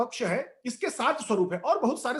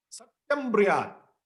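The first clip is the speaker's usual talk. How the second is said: Sanskrit verse recitation. Acted.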